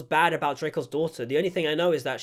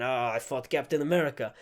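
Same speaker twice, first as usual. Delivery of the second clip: lightly hammed-up big Russian man, pitched lower; mock Russian accent; 4 semitones lower than usual. Reviewer imitates the film's big Russian hero, mock Russian accent. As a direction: put on a low Russian accent. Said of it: "strong Russian man".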